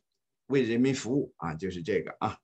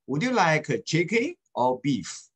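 slowed, clearly spaced model sentence; 4 semitones higher, slower than usual. Shown as a demonstration. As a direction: read it slowly so the class can follow. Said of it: "然后跟我读哈". (放慢示范朗读)

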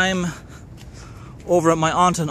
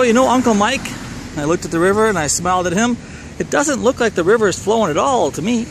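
cheeky innocence; 5 semitones higher than usual. Retold or imitated. Boy cheekily denies to his uncle.

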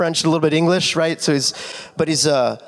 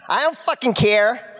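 Brianna impression; 7 semitones higher than usual. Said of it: "That's Brianna".

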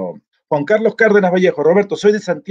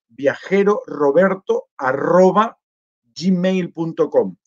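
slow dictation; much slower than usual. Real, not acted. Dictating an email address.

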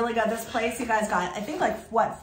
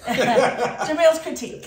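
laughing; 3 semitones higher, 5 dB louder, slower than usual. Real, not acted. Teasing partner, laughing.

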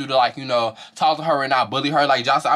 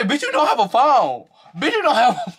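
high-pitched, repeated mocking jab; mock argument; 10 semitones higher than usual. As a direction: imitate her taunt, pitched way up. Quote repeated while tickled by it.

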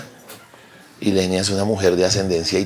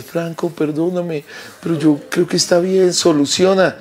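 high, slow sweet apologetic voice; light falsetto of a sweet woman; voicing Ilenia; 8 semitones higher, slower than usual. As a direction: mimic a gentle teammate apologizing.

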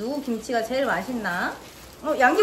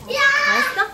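surprised; 12 semitones higher, 5 dB louder, much slower than usual. Real, not acted. Mom surprised child finished.

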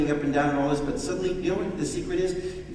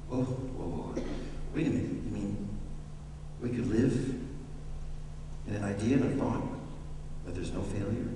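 mock surprise; 6 semitones lower, 6 dB quieter than usual. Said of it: "mock doubter".

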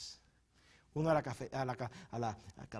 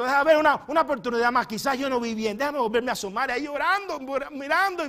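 tearful Mary; 10 semitones higher, 11 dB louder than usual. Acted. Mary searching the tomb, weeping.

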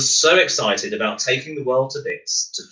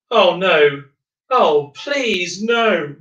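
wail; 8 semitones higher, much slower than usual. Acted. The Concorde pilot begs not to fly Miles, high wail. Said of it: "wailed the pilot of Concorde".

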